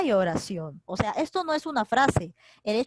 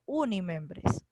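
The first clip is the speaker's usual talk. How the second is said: slow emphasis; 3 semitones lower, 4 dB quieter, much slower than usual. Real, not acted. Teacher repeats key term.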